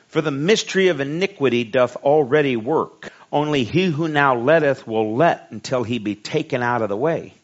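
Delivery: preacher's measured, ringing scripture delivery; scripture reading. A narrator's reading. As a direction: read the verse out strongly, leaning on key words.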